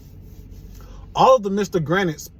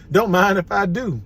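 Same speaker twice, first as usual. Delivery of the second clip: laughing; 3 semitones higher than usual. Acted. Aliens reply with a laugh.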